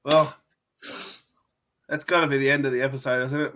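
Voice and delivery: barely able to talk from burning mouth; mouth on fire. Real, not acted. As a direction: speak through a burning mouth. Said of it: "I can barely talk".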